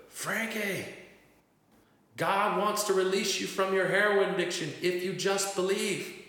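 high, loud call across the street; yelling as loud as he could. Retold or imitated. Preacher yelling God's message across the street, loud and high. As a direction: shout it out to a stranger in the rain. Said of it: "I yelled as loud as I could".

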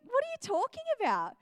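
put-on high, quick, puzzled kid's retort; hammed-up protest at a silly claim; mock incredulous. Daughter answering her friend, mock incredulous. Acts out own bewildered reply.

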